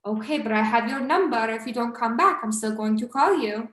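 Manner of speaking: lightly imitated Albanian accent. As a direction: insist with a hint of Albanian accent. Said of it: "I'm just trying to do his cute accent".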